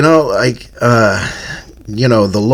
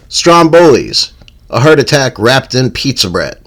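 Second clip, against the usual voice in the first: mock-earnest sponsor read with punched product names; podcast announcer. Host opening the show with joke sponsors, announcer voice. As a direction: deliver it like a show host's ad read.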